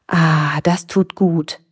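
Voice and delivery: contented sigh of relief; relieved. A narrator's reading. Dolphin freed of itchy shells, relieved. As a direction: let the relief out on "Ah".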